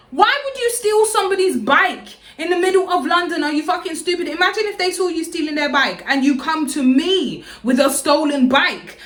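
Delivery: high-pitched exasperated rant; incredulous outrage. Retold or imitated. Berating her for stealing somebody's bike, incredulous. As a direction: scold in disbelief, pitch riding high. Scolds the bike thief in retelling.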